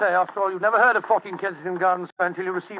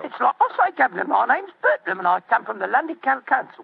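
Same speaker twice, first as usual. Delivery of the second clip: put-on Cockney accent; 4 semitones higher than usual. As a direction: bluff nervously in Cockney. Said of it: "My Cockney accent doesn't compare with yours".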